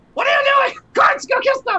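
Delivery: very high, loud, barked yelling. The captain leading his troops, yelling at everyone. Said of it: "I'm just like yelling at everyone".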